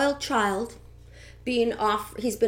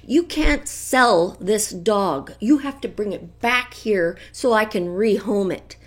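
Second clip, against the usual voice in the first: imitating the trainer; 6 dB louder than usual. Dog trainer calling Lori to demand the dog back, firm and loud. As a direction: lay down the law like the trainer. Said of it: "he phones her up and says".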